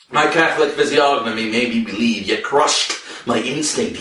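ordinary delivery, nothing marked

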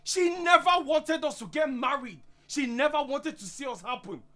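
high-pitched, heated protest; indignant. Acted. Husband accusing wife's friend of gloating, indignant. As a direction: protest as if personally insulted.

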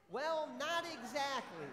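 amused laugh. Real, not acted. Pastor laughing at a child's fan answer, amused.

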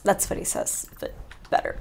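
ordinary talk, nothing marked

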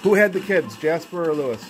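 loud questioning call. Real, not acted. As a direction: throw the question out loud to the spirits. Asking spirits loudly.

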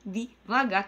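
word by word, with gaps; imitating a slow talker, syllables spaced out; deliberately measured, drawn-out delivery; mock slow talk. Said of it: "que dá raiva".

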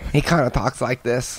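soft, slightly throaty Boston accent; light Boston accent, held back in the throat; quiet demo of a sickly kid's Boston accent. Shown as a demonstration. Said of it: "the Boston accent".

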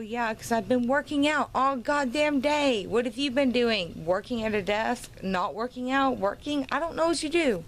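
taunting, rising questions at the haters; snarky taunt at the desk-job haters; sarcastic jab. Real, not acted. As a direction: needle the haters with mock questions. Mocking the haters' desk jobs.

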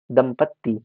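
दंपत्ति with a held double t; doubled t. Shown as a demonstration. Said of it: "या दंपत्ति नहीं".

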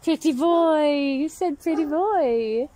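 high loud squawky pet voice; a hint of a parrot squawk; parrot-like pet talk. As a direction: echo the bird's words high and loud. Mimicking the parrot's phrase.

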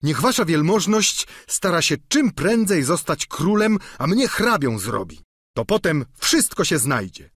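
lightly voiced eager squire, pressing; Sancho voiced. Sancho urges his master.

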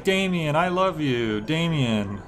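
imitated baby alien. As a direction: lightly mimic a small creature's declaration of love. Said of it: "when he's a little baby alien".

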